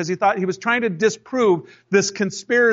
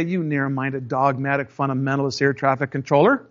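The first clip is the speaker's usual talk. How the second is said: mock indignant; 5 semitones lower than usual. Mock insult to control tower.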